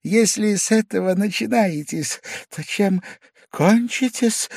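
high, wary, mild objection; timid protest. A narrator's reading. Frightened drunk guest protests weakly to his host. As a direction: object meekly, a little scared. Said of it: "чуть-чуть протестовал было".

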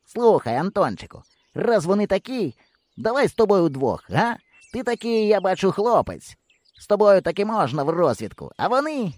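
high, lightly voiced flattery; a boy flattering his new partner; coaxing boy. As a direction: win over his partner. Hero befriending Antonchyk.

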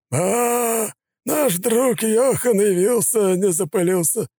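high, slow, smirking thug; smug gangster voice. A narrator's reading. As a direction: gloat over him with a grin. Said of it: "Ника расплылся в довольной улыбке".

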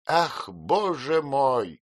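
slow, high sighing lament; aunt sighs over a foolish girl. A narrator's reading. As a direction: let it out on a sigh. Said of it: "со вздохом вырвалось".

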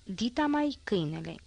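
"Dita mai câinele" swelled on purpose, as if in capitals; puffed-up emphasis. A narrator's reading. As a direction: puff up "Dita mai câinele" into a big announcement. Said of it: "înscris prin litere mari".

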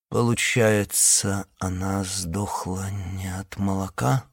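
slow, stiff numb lips. Acted. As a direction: speak as if lips won't obey. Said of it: "непослушными губами уточнил Кай".

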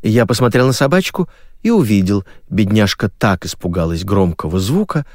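usual speaking voice

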